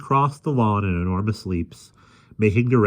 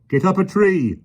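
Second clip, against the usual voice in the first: loud yelled order; 12 semitones higher, 5 dB louder than usual. A narrator's reading. Policeman yells at Miss Lark, loud order. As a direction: yell it at her. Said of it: "the policeman yelled".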